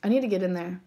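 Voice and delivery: unvoiced conspiratorial whisper; hushed eager whisper. Real, not acted. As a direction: breathe it like a secret.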